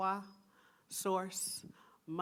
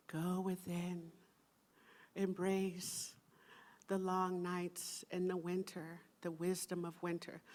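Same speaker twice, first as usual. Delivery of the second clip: soft inward voice; 5 dB quieter than usual. Pretend. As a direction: coax them gently inward. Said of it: "winter solstice say".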